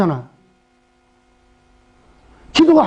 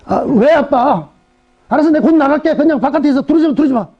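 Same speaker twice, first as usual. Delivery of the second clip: put-on annoyed teen; 4 semitones higher than usual. Annoyed teenage daughter.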